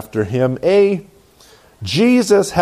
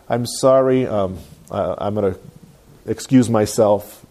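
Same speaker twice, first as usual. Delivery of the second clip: polite excuse; 6 semitones lower than usual. Acted. Churchgoer bowing out of dirty jokes, politely. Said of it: "in a very polite way".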